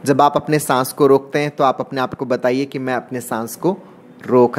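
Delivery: measured breathing guide, pausing between phrases; guided meditation. Acted. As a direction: pace the listener's breath, stretching key words. Leads breathing exercise in meditation. (ध्यान कराते हुए, रुक-रुक कर)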